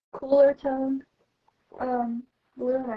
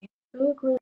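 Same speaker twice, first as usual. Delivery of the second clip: talking through the hiccups; speaking with hiccups; hiccuping; faster than usual. Real, not acted. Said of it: "You're hiccuping".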